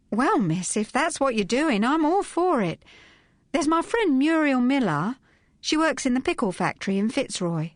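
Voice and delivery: high, keen housemaid voice; eager young maid. Acted. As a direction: chatter eagerly to your mistress. Dot warms to plan.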